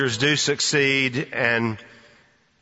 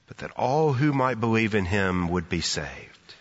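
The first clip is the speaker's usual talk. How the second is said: softer, lower, measured Bible verse; scripture recitation; 4 semitones lower, 3 dB quieter than usual. Acted. Preacher offers the ready answer, gentle scripture recitation.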